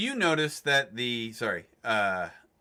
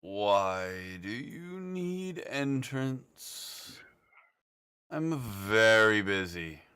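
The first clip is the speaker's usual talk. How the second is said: slow, flat robotic voice; 2 semitones lower, much slower than usual. Acted. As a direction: speak like a bored machine. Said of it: "you hear in a robotic voice".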